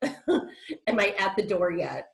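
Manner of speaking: slow, puffing re-enactment of being winded; imitating out of breath. Patient retelling her winded walk to the ER, acting out of breath. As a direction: huff it out as if winded from walking. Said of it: "I was so out of breath".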